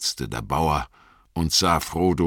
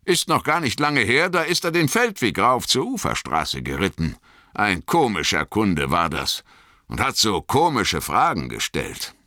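higher, lightly voiced farmer recognising an old friend; a farmer breaking into a grin; pleased farmer; 4 semitones higher than usual. Farmer invites them in.

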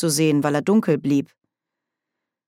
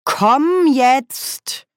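higher, louder urgent command; urgent call; 9 semitones higher, 5 dB louder than usual. Acted. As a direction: snap her out of it. Nanny tugging a frozen witch.

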